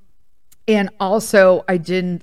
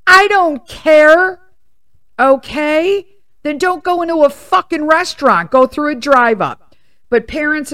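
loud, high, fired-up tirade; real indignant rant; heated rant; 7 semitones higher, 6 dB louder than usual. Real, not acted. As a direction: preach it like a fed-up parent. Ranting about hats in restaurants.

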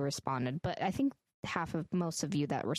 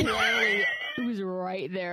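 much louder, emphatic; loud exclaim; 2 semitones higher, 5 dB louder than usual. Real, not acted. Friend telling how the car was there, loud exclaim. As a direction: belt it out in disbelief. Cohost loudly exclaims at the punchline.

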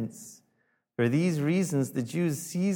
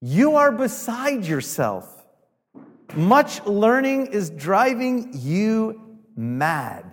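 loud, slow, raised pitch; the king shouting Paul down as a madman; yelling king; 5 semitones higher, 4 dB louder, slower than usual. Retold or imitated. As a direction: Festus bellowing in disbelief. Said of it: "The king yells out".

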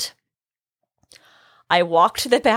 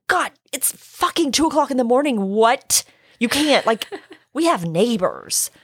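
exasperated hiss; 4 semitones higher than usual. Retold or imitated. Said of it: "And I'm like".

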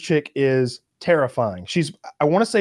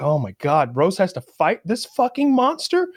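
pitched way up in mock terror; mock terrified; 9 semitones higher than usual. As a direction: squeal it like a scared fan. Terrified reaction, much higher.

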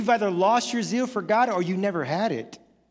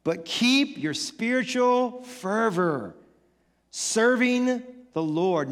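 slow scripture reading; slower than usual. A narrator's reading. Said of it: "Paul says".

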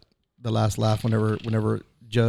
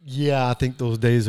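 yawning; 3 dB louder, slower than usual. Real, not acted. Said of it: "Dude, if you're yawning".

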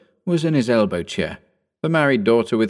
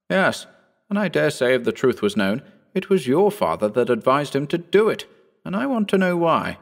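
put-on a lighter, higher young gentleman's voice; young Phillipson; 6 semitones higher than usual. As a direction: lift the voice into the eager young squire. Phillipson presses Mitchell.

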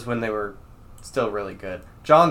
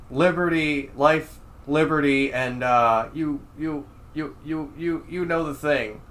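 halting, higher politician voice, stuck stammering; Joe Biden; 4 semitones higher than usual. Acted. Host recalling politician's botched famous phrase, stammering impression. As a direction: lightly imitate losing the words mid-recital. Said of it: "after he said".

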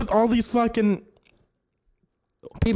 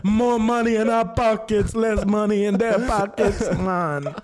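stoner Jeff Bezos; slower than usual. Retold or imitated. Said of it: "I'm Jeff Bezos".

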